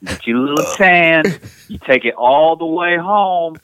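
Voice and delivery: lightly put-on New Jersey accent, laid back; a hint of New Jersey tough guy. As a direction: play a cocky Jersey guy bragging about the shore. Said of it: "what does a pure New Jersey dialect sound like".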